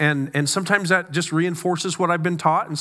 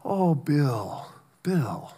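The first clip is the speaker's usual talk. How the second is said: gentle endearment; 2 semitones lower, 4 dB quieter, much slower than usual. Retold or imitated. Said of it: "I don't think Jesus to me would say".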